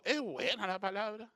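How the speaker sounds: mildly naive question; ingenuo. Retold or imitated. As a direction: ask it innocently, in an easy voice. (pregunta ingenua y sencilla)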